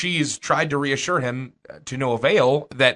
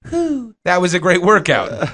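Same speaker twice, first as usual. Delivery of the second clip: slow, raised-pitch mock relief with a puffed whew; mock exhausted gym-goer; 4 semitones higher, 4 dB louder, slower than usual. Light sweater boasts after three seconds of exercise, mock exhaustion. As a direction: play someone pretending they worked hard. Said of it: "sweat for maybe three seconds, then go".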